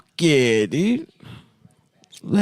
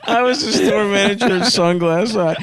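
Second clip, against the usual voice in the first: laughing; 4 semitones higher than usual. Retold or imitated. Quoting the interview, laughing.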